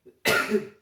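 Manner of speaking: a loud real sneeze; sudden loud sneeze mid-sermon; sneezing. Real, not acted. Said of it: "espirrei doido". (espirro alto)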